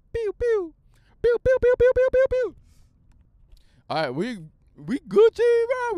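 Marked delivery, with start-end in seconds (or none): 0.1-2.6 very high loud laser pews; laser pew sounds. Pretend. Playing with sounds for viewers, high loud laser pews. 5.0-6.0 very high, loud, excited; hyped squeal. Pretend. Hyping the new episode, a high loud squeal.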